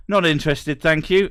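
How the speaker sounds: overly polite, rising at the end; politely decline, chirpy; polite brush-off. Pretend. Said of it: "the politest response is".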